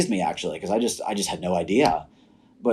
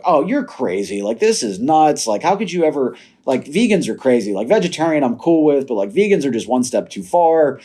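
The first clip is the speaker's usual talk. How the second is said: higher, mildly exasperated pushback; retold incredulous protest; 5 semitones higher, 3 dB louder than usual. Husband recalling his reaction to wife going vegan, incredulous. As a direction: re-enact balking at an absurd idea, pitch jumping up.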